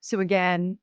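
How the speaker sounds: projected, emphatic host sign-off; podcast outro read. Acted. Host thanking listeners and giving a disclaimer, podcast outro read. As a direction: address the whole audience with clear emphasis.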